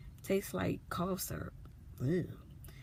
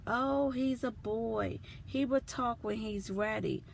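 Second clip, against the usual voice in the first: mock dismissive doctor; 5 semitones higher than usual. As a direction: mimic the doctor waving her off. Mom imitating dismissive pediatrician.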